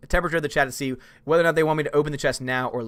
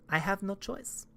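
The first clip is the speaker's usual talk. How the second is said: mock despairing near-whisper; 4 semitones higher, 10 dB quieter than usual. Mock forced devotion repeated.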